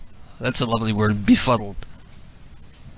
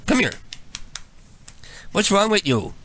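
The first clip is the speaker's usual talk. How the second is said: ordinary talk, nothing marked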